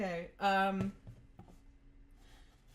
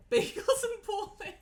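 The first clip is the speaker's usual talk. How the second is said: playful announcement; 12 semitones higher, 6 dB louder than usual. Real, not acted. Playful title shout.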